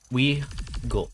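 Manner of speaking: loud high "We go"; excited. Real, not acted. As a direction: punch it out with excitement. Hyped exit.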